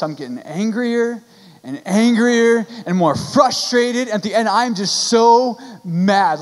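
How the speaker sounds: slow, stretched-out words building in exasperation; retold mounting frustration. Preacher recounting watching the championship game, mock mounting frustration. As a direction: lean hard and slow on each angry word.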